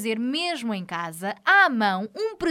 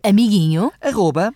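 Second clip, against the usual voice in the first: loud dictation; 5 semitones lower, 8 dB louder than usual. Acted. Dictating the email address.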